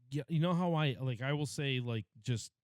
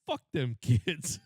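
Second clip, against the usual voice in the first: laughing retort; 3 dB louder, much slower than usual. Retold or imitated. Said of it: "And I go".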